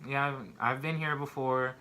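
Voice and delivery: a touch of sadness, hushed start; sad admission. Retold or imitated. Admitting to other inmates she's been here before, mildly sad. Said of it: "sadly, like".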